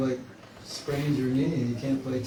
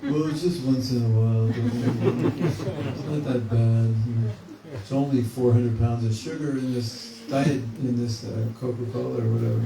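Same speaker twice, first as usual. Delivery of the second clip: coaxing inner voice; 4 dB louder than usual. Retold or imitated. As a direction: talk yourself into it, amused. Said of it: "you have this little conversation".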